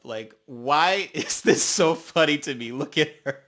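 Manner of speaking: laughing helplessly through the words; can't hold it together; real laughter. Real, not acted. Watching the montage, cracking up, laughing.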